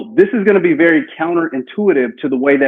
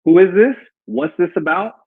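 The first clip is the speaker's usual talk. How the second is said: higher, clipped questioning customer; suspicious customer; 5 semitones higher than usual. Pretend. Customer to the caller: a wary, higher who-is-this. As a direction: play the wary homeowner asking who calls. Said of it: "the next thing she's gonna say".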